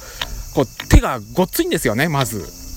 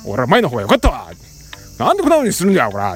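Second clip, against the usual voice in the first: a hint of an angry old man scolding; grumbling father; 4 semitones lower than usual. Father complaining about the new smartphone, mildly angry. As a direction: gripe like a cranky dad. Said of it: "こういう口調でね".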